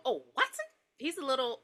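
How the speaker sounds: half-hearted leprechaun voice, near her own; failed leprechaun attempt. Leprechaun answering Watson's phone, half-hearted character voice. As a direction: tentatively try a leprechaun and give up. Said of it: "I can't do Leprechaun".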